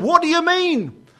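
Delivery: puzzled question. Retold or imitated. Friend puzzled by policeman.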